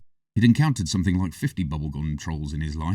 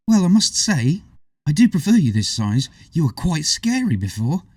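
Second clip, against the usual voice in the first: smiling; 8 semitones higher, 3 dB louder than usual. A narrator's reading. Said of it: "she said with a smile".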